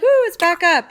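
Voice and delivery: a light burst of joy that the video is back; relieved excitement. Retold or imitated. Amanda retelling her relief when the video returns, mildly excited. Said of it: "And then I'm like".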